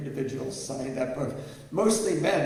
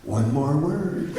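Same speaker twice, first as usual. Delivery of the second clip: slow, teasing, with a laugh; laughing playful dare; 6 dB louder, much slower than usual. Retold or imitated. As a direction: dare him back through laughter. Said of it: "she looked at me and she said".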